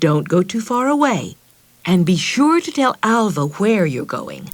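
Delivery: cautioning. Acted. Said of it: "she cautioned Meg".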